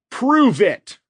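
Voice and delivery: high, loud villain shout; shouted demand. A narrator's reading. Red demanding proof from the old man, shouted challenge. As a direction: challenge him to come out.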